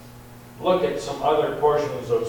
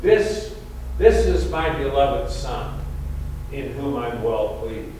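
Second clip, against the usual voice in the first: Father addressing the crowd. Shown as a demonstration. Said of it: "as if he was talking to the people".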